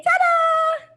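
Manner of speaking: high, loud ta-da; big finish, throw it up high; bright showman's ta-da. Shown as a demonstration. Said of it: "And we say".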